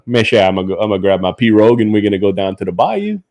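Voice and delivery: a hint of Cajun bayou talk; Cajun accent. Shown as a demonstration. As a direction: turn on a mild Cajun accent. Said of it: "my Cajun accent is".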